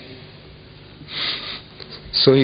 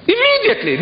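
emphatic exclamation; faster than usual. Real, not acted. Indignant speech to audience.

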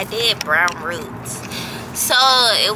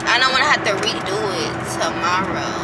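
talking with retainers in; speech thick around retainers. Real, not acted. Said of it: "if I'm talking funny, it's 'cause I got my retainers in".

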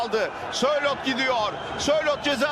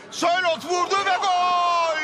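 excited goal call; 5 semitones higher than usual. Real, not acted.

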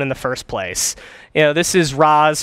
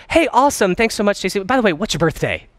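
sincere; 3 semitones higher than usual. Shown as a demonstration. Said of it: "that little extra bit of sincerity, of tone, of pitch".

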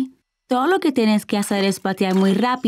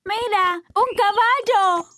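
higher-pitched, drawn-out exclamation; excited calling out; 5 semitones higher than usual. Acted. Child spots a horse, excited higher call.

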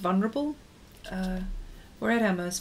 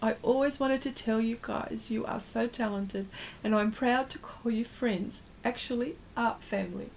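touched; 3 semitones higher, 4 dB quieter than usual. Real, not acted. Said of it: "you got me all emotional now".

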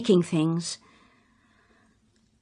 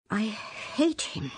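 muttered to herself; 2 semitones higher, 9 dB quieter, faster than usual. Acted. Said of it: "I said to myself".

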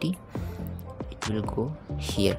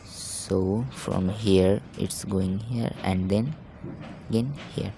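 slow motion. Real, not acted. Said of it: "talking very calmly and slowly".

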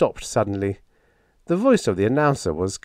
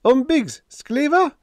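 high, hollow wail; ghostly wail; 5 dB louder than usual. A narrator's reading. Impossible visitor wailing before vanishing. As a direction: wail it like a lost phantom. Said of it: "wailed our impossible visitor".

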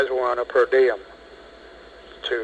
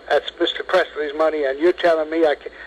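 retold shouting; 4 semitones higher than usual. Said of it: "and by now he's shouting".

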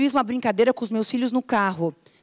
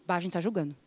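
much softer, lower self-correcting mutter; caught-out aside; 5 semitones lower, 10 dB quieter, much faster than usual. Retold or imitated. Coach catching herself judging, dropped soft and low. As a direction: drop the voice and catch yourself.

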